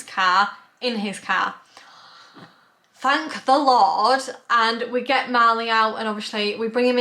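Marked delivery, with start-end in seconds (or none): 2.9-4.2 relieved thanks. Real, not acted. Relief after key found.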